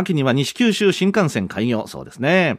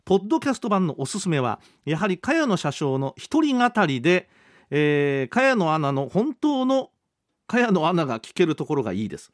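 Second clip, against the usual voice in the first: higher, measured read-aloud voice; reading listener mail; 4 semitones higher than usual. Acted. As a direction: quote the letter in a lifted presenter tone.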